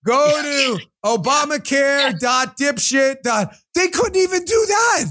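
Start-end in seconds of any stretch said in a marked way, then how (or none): 0.1-3.5 drawn-out mock web address, slow and sneering. Host mocking the broken Obamacare website, slow and sneering. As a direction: spell it out slowly like a joke URL.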